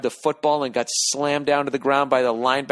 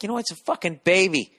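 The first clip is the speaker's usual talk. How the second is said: exasperated; 9 semitones higher than usual. Retold or imitated. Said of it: "I just wanna be like".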